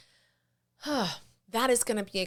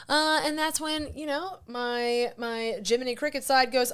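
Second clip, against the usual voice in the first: ordinary delivery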